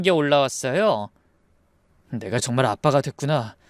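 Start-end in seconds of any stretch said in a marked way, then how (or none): 2.1-3.6 low, tender inner voice; moved. Acted. New father seeing his son through glass, moved. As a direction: say it to yourself, low and full of feeling.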